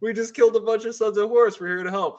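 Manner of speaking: high, fast, incredulous protest; indignant Raven Guard. Retold or imitated. Raven Guard protest to the Space Wolves, incredulous and high.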